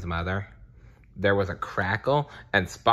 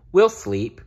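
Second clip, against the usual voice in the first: little bear voice; 10 semitones higher, 5 dB louder than usual. Acted. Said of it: "promised Bear".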